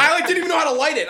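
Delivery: fast, high, laughing through it; laughing while talking. Real, not acted. Admitting to friends he couldn't light it, laughing. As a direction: rush it out between laughs.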